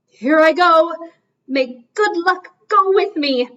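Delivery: psyching himself up before the dive, lightly voiced; bold swan resolve. Old cob steeling himself before the dive, mildly heroic. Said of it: "he said to himself".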